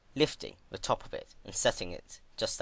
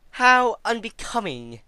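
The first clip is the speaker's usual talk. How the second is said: higher, louder, slow and delighted scorn; gleeful mockery; 11 dB louder, slower than usual. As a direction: savour the insult with glee. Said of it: "she exclaimed happily".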